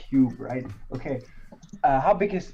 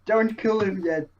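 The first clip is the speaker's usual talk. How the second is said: higher-pitched mock shout; acted shout; 7 semitones higher than usual. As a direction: call out urgently, not at full volume. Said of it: "I want to shout".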